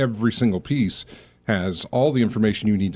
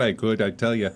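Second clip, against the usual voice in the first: lightly put-on Minnesota accent; folksy Minnesota Fargo accent. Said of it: "I could just keep talking like that".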